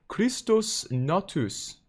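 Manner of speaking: overdone, high-pitched German accent sliding into Norwegian; botched German accent. Shown as a demonstration. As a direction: have a go at a German accent, too sing-song Nordic. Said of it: "that's a little too Norwegian".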